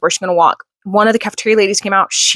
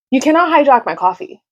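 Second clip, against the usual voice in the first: higher mock-stern protest to her son; playful scolding; 7 semitones higher than usual. Real, not acted. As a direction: warn him off the coffee, teasing. Son grabbing her coffee.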